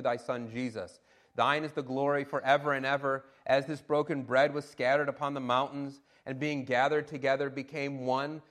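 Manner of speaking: measured, solemn liturgical reading; scripture reading. Acted. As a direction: read it like an old prayer. Reads ancient prayer text aloud.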